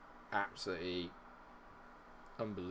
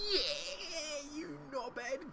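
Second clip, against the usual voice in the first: strained cursing; 13 semitones higher, 9 dB quieter, much slower than usual. Real, not acted. Cursing a player under pressure.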